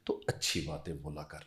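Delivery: a hint of an old mother counselling her son; mother quietly advising her son, soft and low; mother's advice. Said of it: "امی نے مجھے کہا".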